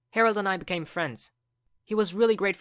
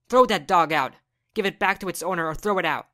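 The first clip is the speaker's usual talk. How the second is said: angry mom; 6 dB louder than usual. Acted. Mom orders dog out.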